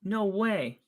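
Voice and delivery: high, disbelieving exclamations; can't believe what you see; surprised. Real, not acted. Player loses shoe on play.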